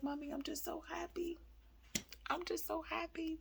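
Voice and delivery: put-on high, hushed child voice; a tiny, overcome kid, softly imitated; soft, very high retold voice; imitating tearful happy son. Son near tears of joy, retold.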